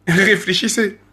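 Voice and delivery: drawn out with a laugh; slow amused repeat. Real, not acted. Rapper taunting his critics, slowly laughing as he repeats. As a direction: say it again slowly, chuckling at them.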